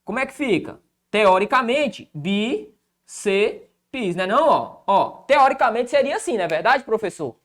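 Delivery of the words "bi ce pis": "bíceps" as bi, se, pis with pauses; syllable by syllable. Shown as a demonstration. Teacher separating a word in theory, "bíceps" broken into bi-se-pis. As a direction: pull "bíceps" apart into three separate beats. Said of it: "Se a gente for separar".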